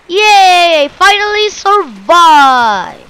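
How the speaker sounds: loud, drawn-out relief and joy; happy whoop at surviving; triumphant cheer. Real, not acted. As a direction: celebrate it, stretching the words. Celebrating survival in game.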